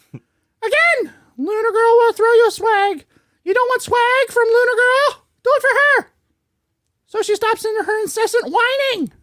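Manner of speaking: brisk, peppy scripted plug; promo read. Acted. Asking listeners for five-star reviews, promo read. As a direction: rattle through the listener plug with energy.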